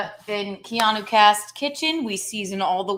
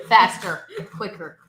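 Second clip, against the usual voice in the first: head chef barking; 6 dB louder than usual. Pretend. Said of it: "trying to be like the head chef".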